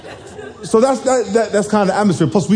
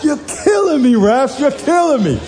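high exasperated yell at the referees; high exasperated complaint shouted at the refs; 10 semitones higher than usual. Retold or imitated. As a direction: holler your frustration at the refs. Yelling at the refs.

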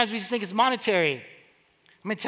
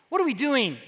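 higher-pitched imitation of second thoughts; mock doubt; 4 semitones higher than usual. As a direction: act out someone about to give up. Mocks what they didn't say.

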